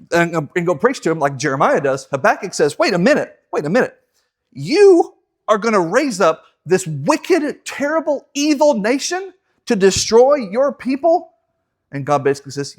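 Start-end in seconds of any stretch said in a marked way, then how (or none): 2.8-11.3 incredulous protest. Acted. Habakkuk protests to God.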